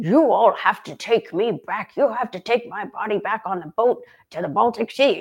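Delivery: combative, belligerent, heavy put-on Northern German accent. Speaker imitates their dad's recurring complaint to the family; mock-belligerent thick German accent. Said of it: "he would get like belligerent about it. He'd be like".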